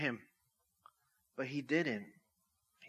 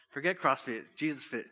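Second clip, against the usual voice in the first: laughing punchline; 4 dB louder than usual. Real, not acted. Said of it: "punchline laughing".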